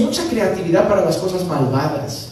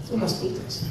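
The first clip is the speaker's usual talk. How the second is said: whispered aside; 9 dB quieter than usual. Shown as a demonstration. Pastor warning the congregation, repeating it in a whisper. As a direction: whisper it, much softer.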